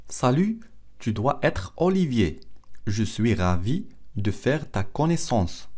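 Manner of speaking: slow, carefully separated French phrases; slow model reading. Shown as a demonstration. Teacher repeats the film line for learners, slow model reading. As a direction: read it slowly for language learners.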